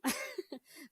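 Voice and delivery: a quick amused laugh that jumps up high; short high laugh. Real, not acted. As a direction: laugh at yourself. Laughs at her tempting inner voice.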